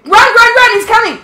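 being chased. Real, not acted. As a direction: shout run over and over in panic. Friend chased by monster.

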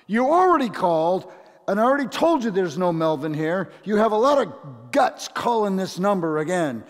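high, loud, fast angry phone voice; mock anger. The man scolds a repeat caller in a hammed-up angry voice. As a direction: tell him off loudly for calling back. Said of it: "now this would be anger".

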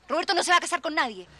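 stern, measured refusal to discuss it; stern but contained; firm denial. Acted. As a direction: shut the topic down coldly. Firm denial to nosy servant.

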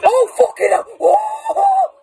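startled shout, pitch jumping up; shocked yell at a sudden scare; yelling across the room. Real, not acted. Jump scare by the killer.

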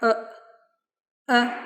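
short neutral schwa "е"; "е" as a relaxed, unstressed uh sound. Shown as a demonstration. Teacher shows learners the English schwa, neutral "е". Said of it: "дуже нейтральний".

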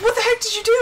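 high mock-mad outburst; imitated exasperation. Wife imitating mad husband, mock exasperation. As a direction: imitate a husband worked up in disbelief. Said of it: "He gets so mad".

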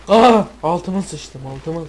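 slow, loud, drawn-out panic; panicked gamer under fire; scared. Real, not acted. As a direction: wail it in terror.

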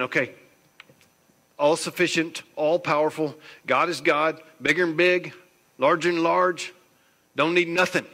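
big, loud, high and mighty; rising to a loud, grand declaration; booming proclamation. Acted. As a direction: proclaim God's greatness at full force. Voicing God's grandeur, building.

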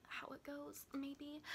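very soft, hesitant aside; unsure half-whisper. Real, not acted. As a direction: trail into a near-whisper, unsure of yourself. Unsure of the plot she tells.

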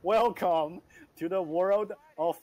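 put-on amateur British accent; attempted British accent. Friend copying the game's welcome, attempted British accent. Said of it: "say it in a British accent".

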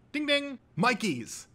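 high voiced chime, then keen answer; ding in and answer triumphantly, drawn out; buzzer and answer. A narrator's reading. Buzzer, then contestant's instant answer.

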